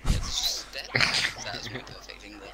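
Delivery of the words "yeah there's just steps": northern talk. Retold or imitated. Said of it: "It's perfect northern talk".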